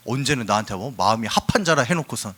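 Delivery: acted exasperated lament; lamenting protest. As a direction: complain to God, bursting out at the end. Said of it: "탄식하고 있어".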